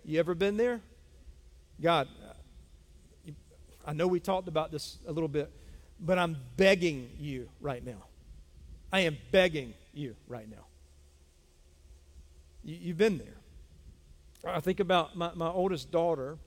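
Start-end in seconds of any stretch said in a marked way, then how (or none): 1.8-10.7 desperate prayer. Acted.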